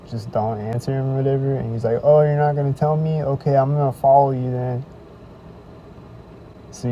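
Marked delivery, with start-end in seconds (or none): 2.0-4.8 louder, needling retort; lightly voiced pest taking offence; mock pushy stranger. Stranger says he'll follow him, mildly mocked.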